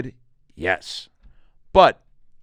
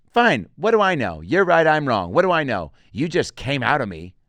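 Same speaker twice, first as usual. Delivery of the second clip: higher, louder mock huff; exasperated mom; 3 semitones higher, 4 dB louder than usual. Mom ending a fight with her son, exasperated. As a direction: concede with heavy sarcasm. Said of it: "we got this big fight".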